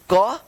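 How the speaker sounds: "क" as a hard k with short vowel; C as K sound. Shown as a demonstration. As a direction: sound out "क" like English k. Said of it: "सी का दो उच्चारण होता है". ("क" को कड़ी 'क' ध्वनि में बोलें)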